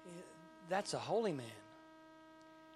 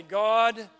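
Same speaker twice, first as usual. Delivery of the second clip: anguished cry; 5 semitones higher, 12 dB louder than usual. Pretend. Crying out to God.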